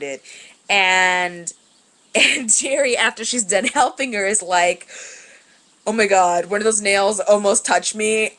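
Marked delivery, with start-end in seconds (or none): 5.9-8.3 loud, grossed-out mock outburst; imitating a grossed-out coworker, loud; disgusted exclamation. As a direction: play up the disgust like a retold coworker. Jerry's disgusted quote about nails.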